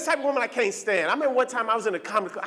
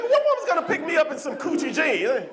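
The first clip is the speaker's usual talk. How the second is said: exasperated shout; 5 semitones higher than usual. Retold or imitated. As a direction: shout it in mock despair. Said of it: "I'm like".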